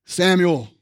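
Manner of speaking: a solemn call from beyond, ringing the name Samuel; voice of God calling. Acted. God calls the boy Samuel.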